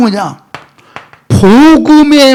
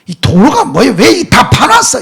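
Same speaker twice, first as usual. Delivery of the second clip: a touch of exasperation; acted irritation; 3 semitones higher than usual. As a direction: grumble like an irritated driver. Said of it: "이렇게 막 그러면서 짜증을 내요".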